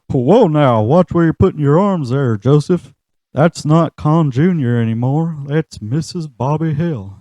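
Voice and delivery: lightly voiced stern dad warning; Hank Hill.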